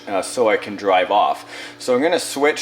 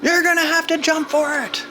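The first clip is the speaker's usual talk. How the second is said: excited call out. Pretend. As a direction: call out to the little figure. Calling out to toy figure again.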